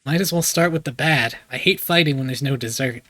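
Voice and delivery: put-on light southern American accent; game line in mild southern accent. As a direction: lay on a slight Southern accent. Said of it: "Just do a southern accent".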